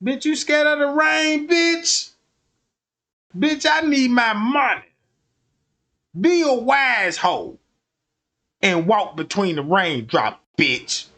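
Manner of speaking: rising, scornful pimp voice; lightly voiced pimp mocking the rain. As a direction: scold her like a cocky pimp. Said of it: "be like".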